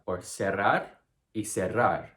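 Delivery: cerrar with a plain s both times; same s sound twice; Latin American s. Shown as a demonstration. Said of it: "homophones in Latin American Spanish".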